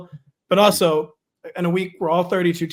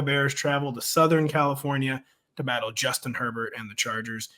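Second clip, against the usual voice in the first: promo read. Acted. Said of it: "I'm gonna do a promo right now".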